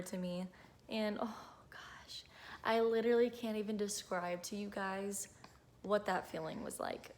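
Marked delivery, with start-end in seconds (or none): 1.7-7.1 choked up. Real, not acted. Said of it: "I could cry right now".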